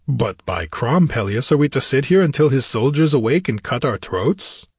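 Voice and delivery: lightly voiced gruff warrior, impatient; a hint of a barbarian king demanding action. Narrator voices impatient Conan.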